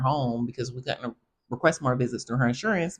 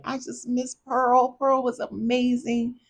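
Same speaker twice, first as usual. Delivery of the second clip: mock crying; 10 semitones higher than usual. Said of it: "And this man started crying".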